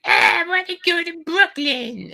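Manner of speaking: very high falsetto date; mock girl voice. Date telling the guy where to go, mock girl voice. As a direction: put on a girly, whining falsetto. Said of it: "she's like".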